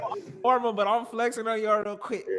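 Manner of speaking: high, loud, slow show-off boast; mock flex. Teasing his friend about the Yeezys, a cocky high boast. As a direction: strut it like a cocky flexer.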